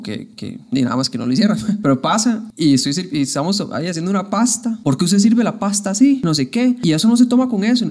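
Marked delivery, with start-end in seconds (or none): 4.8-7.9 a hint of a scolding voice, louder and higher at the end; imitated scolding. Lightly imitating the host lady scolding how pasta is served. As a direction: nag sharply about the pasta, mock-offended. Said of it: "ya empieza a gritarme rarísimo".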